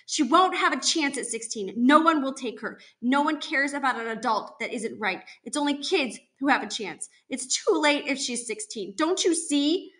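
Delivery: a mother's distressed insistence; desperate pleading. Acted. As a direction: argue desperately to be understood. Mother pleading in tearful quarrel.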